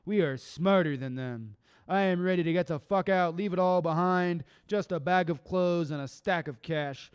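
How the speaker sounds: fast rhythmic poem rant; ranting spoken word delivery. Acted. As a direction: push the lines out hard.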